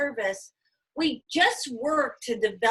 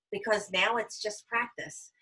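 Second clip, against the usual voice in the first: coaching advice; 4 dB quieter than usual. Shown as a demonstration. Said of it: "Hold ten or twenty and then call me back".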